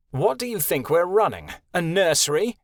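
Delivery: scornful outraged question; mock the idea, outraged. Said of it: "Winter asked, outraged".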